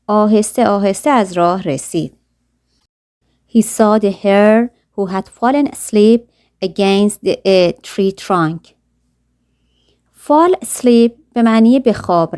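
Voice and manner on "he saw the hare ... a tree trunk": put-on slow, careful read-aloud of a children's story; slow storybook narration. A narrator's reading. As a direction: read each word slowly for learners.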